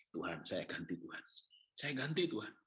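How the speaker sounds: quiet plea. Retold or imitated.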